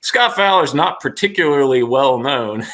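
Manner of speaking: laughing as you read out a slight; amused quote. Retold or imitated. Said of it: "I saw an article recently said".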